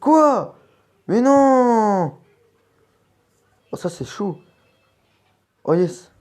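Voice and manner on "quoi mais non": high shocked shriek; shrieking jackpot winner. Real, not acted. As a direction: cry out in disbelief, loud and high. Missed shot in game, outcry.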